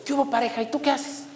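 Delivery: high, softened mock cop voice; imitated police officer. One judicial policeman greets his partner, imitated cop voice. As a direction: put on a high-pitched chummy policeman. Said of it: "uno le dice al otro".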